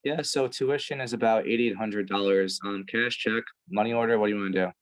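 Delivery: low, dull monotone quoting tuition; bored setter voice. Shown as a demonstration. Setter reading tuition to a prospect, bored and lifeless. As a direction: drone through it like you hate the job. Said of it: "you're like this".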